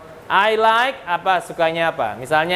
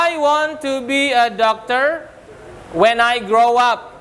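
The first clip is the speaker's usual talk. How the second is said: slow model sentence; 5 semitones higher, slower than usual. Shown as a demonstration. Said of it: "Cita-cita bilangnya adalah".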